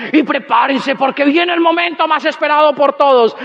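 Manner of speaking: mock emcee hype, stretched out; lightly voiced hype-up announcer; event presenter. Presenter to the crowd before the big moment, hyping it up. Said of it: "un presentador y decía".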